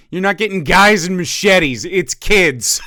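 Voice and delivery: high loud laughing through words. Real, not acted. Streamer mocking the clip, laughing hard. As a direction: crack up mid-sentence.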